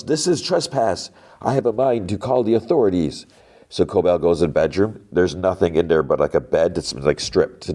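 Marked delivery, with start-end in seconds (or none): 0.0-3.2 put-on old lady yelling. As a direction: play the outraged old lady ordering a trespasser out. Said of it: "and the lady yells".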